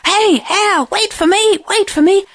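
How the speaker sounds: high, panting plea; breathless lion begging to be waited for; out-of-breath lion. A narrator's reading. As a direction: call desperately after someone while puffing. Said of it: "very out of breath, I can tell you".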